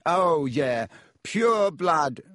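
loud, high exclamation; sudden recall. A narrator's reading. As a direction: announce the password as it comes back. Malfoy suddenly recalls the password aloud.

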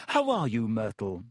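forced cheer; falsely bright. Acted. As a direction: fake friendly greeting. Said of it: "in a falsely bright voice".

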